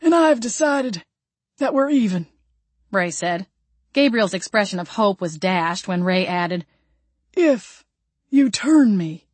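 Southern man, pleased; redneck voice. Acted. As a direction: speak like a rough country man. Ray's redneck voice.

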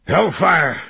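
loud, high exclamation; sudden high outburst of alarm; startled curse. A narrator's reading. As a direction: cry out from behind a door. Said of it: "said a voice".

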